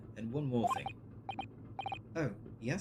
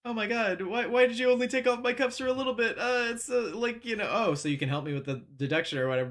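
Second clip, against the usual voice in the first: hammed-up whiny protest, loud and high; mock the hero's indignant whine; a loud, higher mock-complaint about the cuffs; 9 semitones higher, 7 dB louder than usual. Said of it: "it's like".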